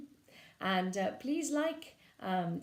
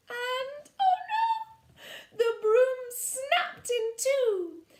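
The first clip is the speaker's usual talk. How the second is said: 1 alarmed; 7 dB louder, much slower than usual. Acted. Broom snaps, sudden alarm.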